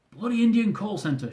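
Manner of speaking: muttered curse. Acted. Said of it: "she muttered".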